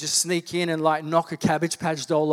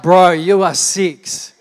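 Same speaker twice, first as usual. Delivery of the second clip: slow, louder, laughing through it; laughing mock retort; 11 dB louder, much slower than usual. Dad laughing off his six-year-old son's door sign. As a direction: scoff at the little boy, chuckling.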